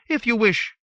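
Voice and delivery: the menu voice clipped off mid-phrase; phone menu recording. A narrator's reading.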